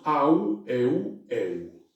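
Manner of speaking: au, eu and eu said slowly, one by one; diphthong demo. Shown as a demonstration. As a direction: spell out the diphthongs au, eu, eu. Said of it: "pronunciado en castellanos". (diptongos au, eu y eu, pronunciados despacio)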